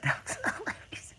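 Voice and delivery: soft wheeze swallowed by laughter; breathless laughter. Real, not acted. Host recalling the joke, wheezing with laughter. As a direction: let laughter take away your voice.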